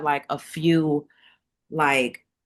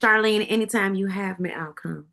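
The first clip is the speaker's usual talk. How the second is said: put-on country accent; 2 semitones higher than usual. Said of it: "That was my little country accent".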